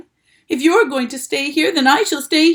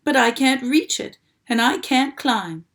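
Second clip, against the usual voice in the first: loud, higher desperate plea; urgent pleading; 5 semitones higher, 6 dB louder than usual. A narrator's reading. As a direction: beg him to hurry.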